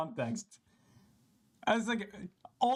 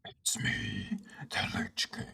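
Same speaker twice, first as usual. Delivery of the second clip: ancient rasping undead king; 7 semitones lower, slower than usual. Retold or imitated. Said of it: "the Frostmourne hungers quote is a little weird".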